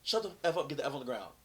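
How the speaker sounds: mock-yelled police order, easing off; retold yell. Officer ordering off-duty cop down, retold yell. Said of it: "he's yelling at me".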